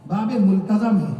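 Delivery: slow, careful "ملتزم" as mul-ta-zam; "ملتزم" ending in -zam, said slowly; correct multazam. Shown as a demonstration. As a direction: teach "ملتزم" with an a before the final m. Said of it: "ملتزم نہیں".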